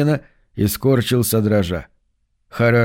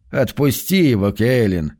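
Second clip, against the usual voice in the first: calm. Acted. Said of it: "спокойно сказал другой".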